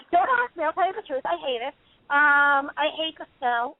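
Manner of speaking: high-pitched, amused protest; laughing admission, pitched high and settling down. Real, not acted. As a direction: talk through the tail end of a real laugh. Laughing over hating the weather.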